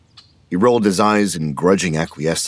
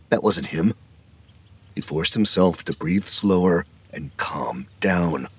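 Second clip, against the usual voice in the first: usual speaking voice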